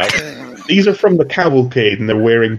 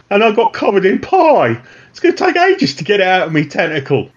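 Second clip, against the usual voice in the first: mutant complaining; 7 semitones higher than usual. Acted. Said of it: "he says".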